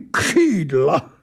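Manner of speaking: put-on high, stretched, offended echo in a foreign accent; indignant creature exclamation. A narrator's reading. Angel scoffs at the idea of wings, indignant. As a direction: cry it out as an affronted creature. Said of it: "zvolal značně popuzen".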